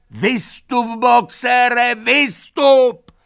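very high, loud shout; desperate shouting. A narrator's reading. The animals yelling at Boxer, desperate high shout. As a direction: scream at him to get out. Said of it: "zvířata začala křičet".

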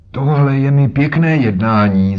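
put-on an old man fuming that he is held back; indignant old man's outcry. A narrator's reading. Old man exclaims to two strangers who block the door, indignant. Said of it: "zvolal a třískl holí".

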